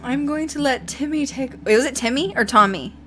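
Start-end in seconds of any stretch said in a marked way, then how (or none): 0.0-1.5 lightly imitated British spirit voice. Podcaster quoting spirit guide in British voice. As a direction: put on a measured British accent. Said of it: "this British voice is like".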